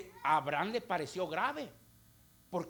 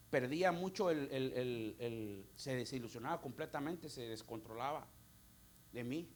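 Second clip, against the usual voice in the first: choked recollection; 9 semitones lower, 10 dB quieter than usual. Real, not acted. Recalling his father, voice sinking.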